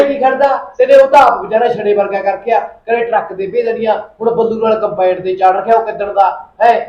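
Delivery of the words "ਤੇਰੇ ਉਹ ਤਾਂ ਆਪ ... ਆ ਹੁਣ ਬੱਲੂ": loud, higher jab at the uncle; heated retort. Acted. Nephew hitting back at the uncle, loud and heated. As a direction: throw it back at him hotly.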